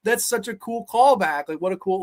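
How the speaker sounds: gushing, high and loud fan reaction; excited gushing. Retold or imitated. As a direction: gush like a thrilled kid. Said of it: "I was like".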